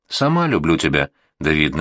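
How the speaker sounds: plain reading voice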